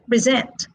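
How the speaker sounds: "present" said pre-SENT for repeating; stress on second syllable. Shown as a demonstration. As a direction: model "present" with a strong last syllable. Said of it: "are stressed on the second syllable".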